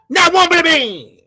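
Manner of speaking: a hammed-up parody of their chant; mocking imitation. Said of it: "That's how these guys talk".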